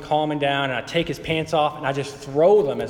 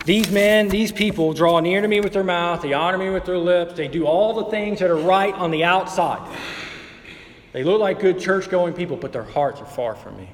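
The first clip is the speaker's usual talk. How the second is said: higher and louder, driving the rebuke home; fervent preaching; 5 semitones higher, 3 dB louder than usual. Acted. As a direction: preach it at the congregation, rising. Preacher paraphrasing God's rebuke.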